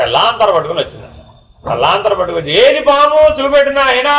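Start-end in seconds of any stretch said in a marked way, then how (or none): 2.7-4.1 put-on old granny voice. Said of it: "అంటూ అడిగిందంట".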